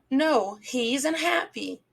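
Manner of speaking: slow "isn't" running into "happy" as "izn happy"; dropped T in isn't. Shown as a demonstration. Teacher repeats the model for students, "isn't" with a barely pronounced T. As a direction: draw out the phrase, T of "isn't" nearly silent. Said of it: "esse T a gente quase não pronuncia".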